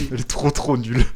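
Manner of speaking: loud, laughing jab; laughing mockery. Real, not acted. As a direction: burst out laughing as you talk. Laughing at a bad player.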